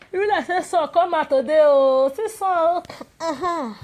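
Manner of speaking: light up at the sunshine; delighted surprise. Real, not acted. Sun comes out today.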